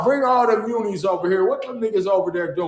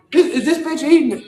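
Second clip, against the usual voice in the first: laughing disbelief; 10 semitones higher, 5 dB louder than usual. Real, not acted. Mocking woman eating on stream.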